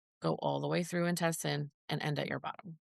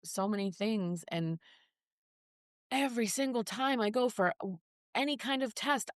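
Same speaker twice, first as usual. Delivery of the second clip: retold emotional outburst; 4 semitones higher than usual. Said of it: "And I'm like".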